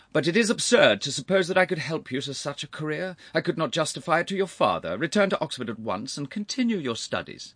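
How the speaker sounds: put-on high, forceful older gentleman; exasperated uncle.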